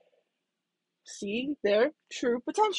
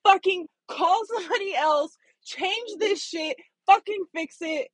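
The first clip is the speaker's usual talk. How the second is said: inner rage; 5 semitones higher than usual. Retold or imitated. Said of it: "I'm screaming inside".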